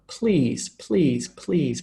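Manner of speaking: PLEASE repeated singly with blended PL; cluster in a word. Shown as a demonstration. Teacher showing a cluster within one word, careful pronunciation demo. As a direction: enunciate PLEASE as a separate falling word each time. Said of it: "within the one word, like please".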